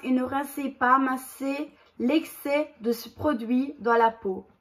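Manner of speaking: steady, careful label-reading voice; reading instructions aloud. Acted. Reading the mask instructions to viewers, steady read-out voice. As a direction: read the directions off the box, evenly.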